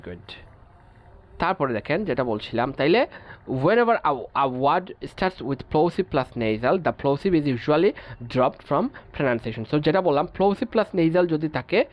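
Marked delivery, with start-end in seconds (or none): 3.6-9.6 each English word read out slowly and evenly; measured, deliberate reading of a textbook rule. Acted. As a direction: dictate the rule slowly to the class.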